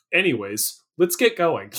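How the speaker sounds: imitated weary brush-off; mock frazzled. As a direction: sigh it off as if frazzled. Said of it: "kind of just frazzled".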